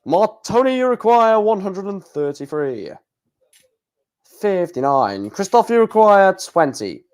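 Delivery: lightly voiced darts score caller; Russ Bray. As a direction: call the scores like the darts announcer. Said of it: "I'll be Russ Bray".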